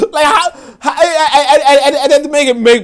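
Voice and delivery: high, loud laughing through the words; cracking up while telling it; laughing hard. Real, not acted. Streamer retells the slide prank, laughing hard.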